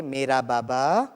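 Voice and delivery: slow, tender "मेरा बाबा"; loving call. Shown as a demonstration. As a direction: say it like calling a beloved father, slowly. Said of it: "बहुत प्यार से कहिए". (प्यार से, धीमे स्वर में)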